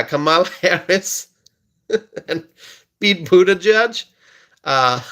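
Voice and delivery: giggling between the names, barely holding it in; laughing through the names. Real, not acted. Host can't stop laughing while naming rivals. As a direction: laugh out a name in the middle of a live stream. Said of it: "why am I laughing so much".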